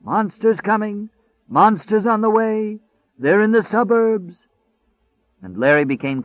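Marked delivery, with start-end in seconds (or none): 0.0-4.3 high, slow, hoarse crying out; hoarse crazy shouter. A narrator's reading. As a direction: howl it like a lunatic prophet. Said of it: "the voice was drawing ever closer".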